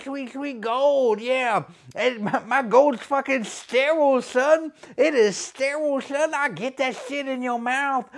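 high, cocky gangster wrestler voice; gangster wrestler persona. Acted. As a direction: strut through it like a trash-talking heel.

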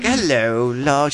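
playful mock British greeting; British accent. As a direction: put on a fancy British accent. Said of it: "Did she have a British accent".

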